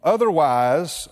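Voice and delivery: slow, deliberate scripture reading; unhurried verse read-aloud. Shown as a demonstration. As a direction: read the verse slowly, word by word. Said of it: "we'll slow it down here".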